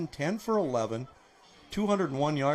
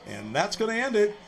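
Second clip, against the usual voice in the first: upbeat, raised broadcast wrap-up; excited sign-off; 5 semitones higher, 3 dB louder than usual. Real, not acted. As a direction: pump up the close before the break. Sign-off to commercial break.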